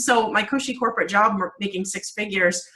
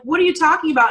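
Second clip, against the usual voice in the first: incredulous; 8 semitones higher, 5 dB louder, faster than usual. Retold or imitated. Baffled reply to crying mom.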